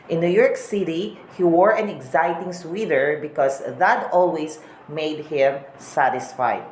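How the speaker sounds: American English, T's turned into D's. Shown as a demonstration. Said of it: "T sounds as a D".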